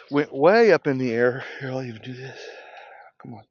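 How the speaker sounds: out of breath from work. Real, not acted. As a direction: puff between words. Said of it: "Catch my breath".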